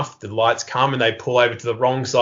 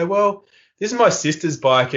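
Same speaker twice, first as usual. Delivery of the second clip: higher, naive explanation; mock-earnest excuse, pitched up; innocent fibbing; 6 semitones higher than usual. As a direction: spin a tale with feigned innocence. Spinning innocent tale to police.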